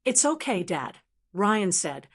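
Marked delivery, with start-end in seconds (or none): 0.1-1.0 venomous coo. Acted. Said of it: "his voice now a venomous, comforting coo".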